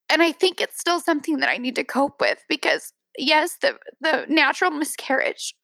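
real emotion welling up as she speaks; tearing up. Real, not acted. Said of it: "I'm tearing up".

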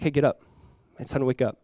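soft, gentle wake-up call; tender waking. Retold or imitated. Jesus to the dead girl, tenderly waking her. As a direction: wake a child softly.

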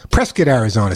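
Prescott said like "PRESS-kit"; local Prescott pronunciation. Retold or imitated. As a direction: rhyme Prescott with biscuit, as locals do. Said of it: "that's the way you gotta say it".

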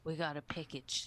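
light New Zealand vowels on package; New Zealand accent. Retold or imitated. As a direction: say it with a Kiwi accent. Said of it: "Is that a New Zealand accent?".

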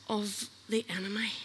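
breathy whisper on the enemy. Acted. Preacher warning the congregation, whispered. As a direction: drop to a whisper, ominous.

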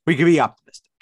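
unvoiced mock-hopeful whisper. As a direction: breathe it like a secret. Whispered repeat of optimistic line.

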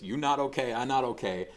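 a lighter retelling of the owner's shout; boat owner's warning. Retold or imitated. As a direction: call it out as the boat breaks up. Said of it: "as he goes".

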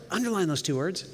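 usual speaking voice

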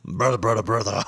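giggling through the words; mock tipsy giggle; laughing drunk. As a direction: imitate a drunk friend cracking up. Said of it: "laughing your balls off".

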